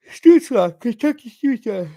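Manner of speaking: high, excited burst on the player names; excited play call. Real, not acted. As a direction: call the names in a sudden loud rush of excitement. Blurted live play-by-play call.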